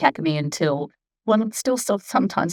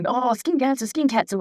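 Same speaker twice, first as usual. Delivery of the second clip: higher, mocking worried voice; mock alarm; 7 semitones higher than usual. Mocking how people fret about the sun, mock alarm. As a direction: parrot the panic about skin cancer.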